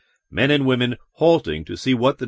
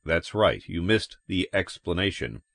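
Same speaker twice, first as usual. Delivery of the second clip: low, soft, even confirmation; measured cop; 3 semitones lower, 5 dB quieter than usual. Acted. Cop confirming to the man after a pause, low and measured. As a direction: answer low and quietly, giving little away.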